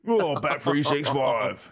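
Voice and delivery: slow gangster-actor impression; drawn-out betting-ad voice of a Cockney hard man; Ray Winston. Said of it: "talking, Ray Winston".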